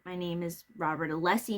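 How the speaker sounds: quiet, lightly smug answer; smirking reply. Retold or imitated. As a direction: say your name with a small smirk. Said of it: "kinda just smirked and said".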